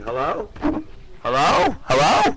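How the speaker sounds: calling hello. Real, not acted. Checking if the caller can hear, loud rising calls. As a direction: call out to check the line. Testing a dead phone line.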